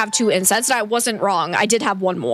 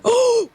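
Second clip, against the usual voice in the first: sharp gasp; 13 semitones higher than usual. Real, not acted. Discovers missing incense.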